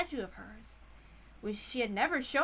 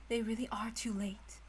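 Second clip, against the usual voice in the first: hushed worry; 6 dB quieter than usual. Acted. Natsuhi to Kraus at the door, hushed and worried. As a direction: whisper it like a worried mother.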